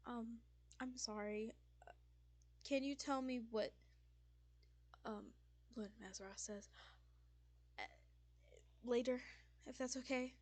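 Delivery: mildly nervous, halting request; anxious. Acted. Frightened Fisk asking Paige for news later, mildly anxious. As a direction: hesitate between phrases, apologetic and uneasy. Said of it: "extremely anxious".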